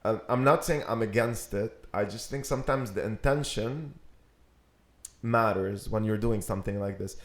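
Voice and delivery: light southern US accent. Shown as a demonstration. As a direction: talk it through in a Southern accent. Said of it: "My, my southern accent".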